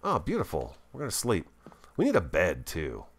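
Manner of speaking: ordinary delivery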